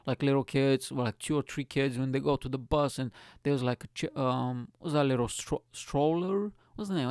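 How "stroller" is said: "stroller" said tentatively with a questioning rise; unsure pronunciation. Real, not acted. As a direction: try out the word "stroller", pitched up and unsure. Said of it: "I can't pronounce it properly".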